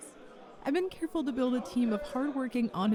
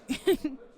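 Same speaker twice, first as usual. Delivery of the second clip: light, brief laugh; quick friendly chuckle; short chuckle. Acted. Interviewer joking along with applicant, short chuckle.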